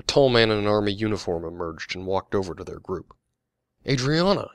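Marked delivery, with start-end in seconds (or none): 3.9-4.5 high, loud greeting in surprise; surprised. A narrator's reading. Soldier recognizing an old friend, surprised. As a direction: exclaim the name, voice leaping up. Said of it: "looking at her with surprise".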